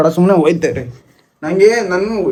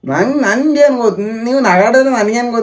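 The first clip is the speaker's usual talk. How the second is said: heated retort; 5 semitones higher than usual. Acted.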